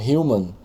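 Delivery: human with an audible H, "HYOO-man"; sounded H. Shown as a demonstration. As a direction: breathe the H at the start of human. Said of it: "eu tô falando H".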